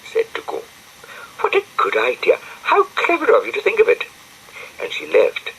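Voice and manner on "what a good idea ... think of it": very high, fast gushing praise; bubbly girlish delight; delighted Florence. A narrator's reading. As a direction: gush over the clever idea.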